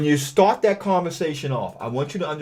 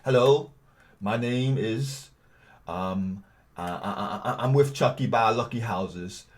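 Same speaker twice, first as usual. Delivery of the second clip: dull, softer, stumbling robotic read; monotone; 5 dB quieter than usual. Shown as a demonstration. Bad cold caller reading a script, flat and halting. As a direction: drone it out with no life, stammering. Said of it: "This is how a monotone person would sound".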